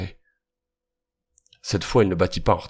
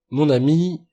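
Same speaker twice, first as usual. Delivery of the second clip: kindly voice; 8 semitones higher, 5 dB louder, slower than usual. A narrator's reading. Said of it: "d'une voix pleine de bonté".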